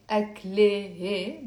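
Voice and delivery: أكله said "ak-le-he", no T sounded; أكله broken into "ak-le-he"; wrong ending without T. Shown as a demonstration. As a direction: put an H, not a T, before the final vowel of أكله. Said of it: "That would be wrong".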